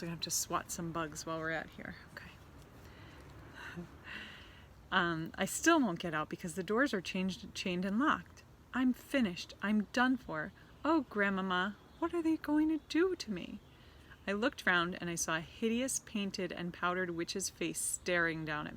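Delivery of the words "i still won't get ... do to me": put-on a trapped boy calls out to his grandmother; panicked boy. Trapped boy pleads to Grandmama, rising panic.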